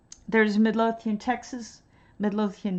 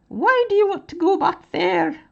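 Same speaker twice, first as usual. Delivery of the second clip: high, loud put-on British voice that drifts Scottish; mock British accent; attempted British accent; 10 semitones higher, 5 dB louder than usual. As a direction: imitate a puzzled Brit relative. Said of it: "I think I'm sounding Scottish".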